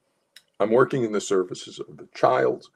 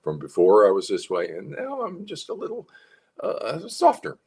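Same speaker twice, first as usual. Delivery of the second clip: a little smile in the voice, higher; smiling softer voice; 4 semitones higher than usual. Shown as a demonstration. Coach showing a parent a smiling voice, softer. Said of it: "you can hear the change in my voice".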